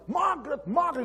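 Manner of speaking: high-pitched yell for Margaret; retold calling out. Boss running out looking for Margaret, calling loudly. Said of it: "he yells at me".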